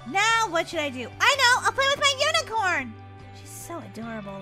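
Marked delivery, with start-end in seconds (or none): 1.2-2.9 high, delighted burst; excited idea. Acted. Molly deciding to play with unicorn, excited. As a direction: exclaim as the idea strikes.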